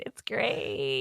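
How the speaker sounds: forced through clenched teeth. Shown as a demonstration. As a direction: grit your teeth and say it. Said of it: "through clenched teeth".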